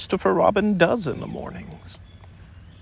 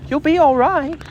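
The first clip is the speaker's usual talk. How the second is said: higher, louder call; 12 semitones higher, 5 dB louder than usual. A narrator's reading. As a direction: call up into the tree. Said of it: "called Christopher Robin".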